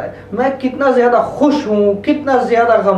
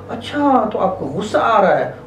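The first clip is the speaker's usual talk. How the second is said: gentle acknowledging. Shown as a demonstration. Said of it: "उन्हें अल्फाज दें".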